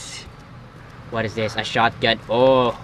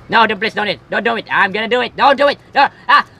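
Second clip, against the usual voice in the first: mock panic; 6 semitones higher, 6 dB louder, faster than usual. Frantic arguing before the jump.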